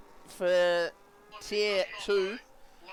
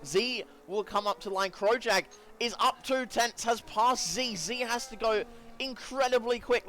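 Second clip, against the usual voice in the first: higher-pitched, excited play-by-play; keyed-up motorsport commentator; live race commentary; 4 semitones higher than usual. Real, not acted. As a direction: call a tight timing battle, voice raised in pitch.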